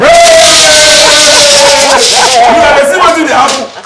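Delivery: real high, loud, stretched-out cheer; excited shout. Real, not acted. Host cheers commissioner choosing pidgin, in an excited shout. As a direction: whoop and shout in delight.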